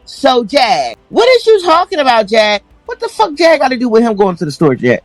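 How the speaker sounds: high, mocking impression of a rambling streamer. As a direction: lift the pitch and parody her rambling.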